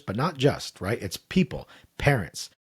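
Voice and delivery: usual speaking voice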